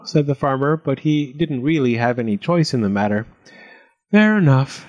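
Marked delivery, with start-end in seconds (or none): 4.1-4.9 higher, reluctant giving-in; lightly sighed resignation; mild sigh. A narrator's reading. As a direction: agree as if with no choice. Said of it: "he sighed".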